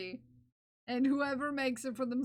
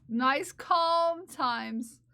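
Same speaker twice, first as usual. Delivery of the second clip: very slow, voiced, drawn-out soothing; mock calming; 2 semitones higher, 4 dB louder, much slower than usual. Streamer keeping viewers calm after tears, mock-soothing voice. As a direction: stretch each word out to calm them. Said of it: "It's nice and calm".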